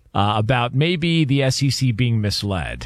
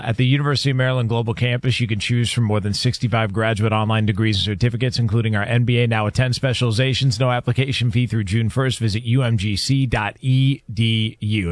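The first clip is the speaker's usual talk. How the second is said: brisk, even sponsor read; faster than usual. Acted. Host reading a university sponsor spot, brisk ad-read delivery. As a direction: read the copy smoothly without pausing.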